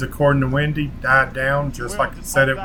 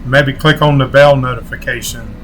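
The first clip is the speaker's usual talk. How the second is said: outro sign-off. Acted. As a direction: sign off to viewers like a channel host. Vlog outro call to subscribe.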